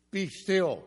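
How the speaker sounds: "Be still" proclaimed high and loud; preacher booming "Be still"; emphatic command. Shown as a demonstration. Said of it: "You is understood as the subject".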